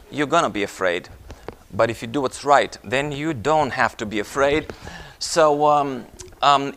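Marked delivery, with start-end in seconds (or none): 0.1-1.1 low, soft, sober warning; hushed repeat. Real, not acted. Preacher repeating the warning to the congregation, hushed and low. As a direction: drop right down to let it sink in.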